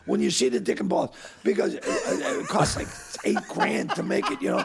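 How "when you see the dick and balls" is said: excited director. Retold or imitated. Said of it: "And he goes".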